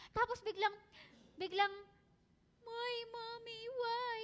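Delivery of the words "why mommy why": put-on high, small voice of a whining child; a hint of a little kid asking why; child's plea. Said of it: "Gaganunan ako". (boses ng batang nagtatanong, mataas at maliit)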